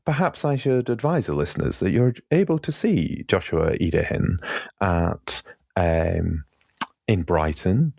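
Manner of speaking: lightly put-on proper announcer voice; mad proper-speaking voice. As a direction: pretend to speak properly for a promo, pitch lifting in places. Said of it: "I was in that mad voice where I try to, try to pretend that I can speak properly".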